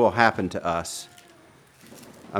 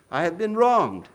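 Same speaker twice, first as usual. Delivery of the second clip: raised and earnest, stress on wronged; affirming, raised; 8 semitones higher, 3 dB louder than usual. Shown as a demonstration. Preacher showing Jesus truly saying it, raised and earnest. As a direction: declare it sincerely, not whining. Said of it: "That's what Jesus was saying".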